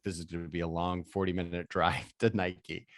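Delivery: low, soft muttered aside; coworker's hushed warning in the back seat; whispering aside. Retold or imitated. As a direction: lean in and murmur it to your friend. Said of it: "my coworker whispers in my ear".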